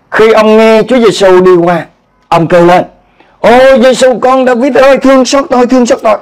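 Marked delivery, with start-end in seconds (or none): 3.4-6.2 pleading cry, pitched high; crying out for mercy. Retold or imitated. Blind beggar crying out to Jesus, high pleading cry. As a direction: call out desperately to be heard. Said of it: "Ông la lên như thế".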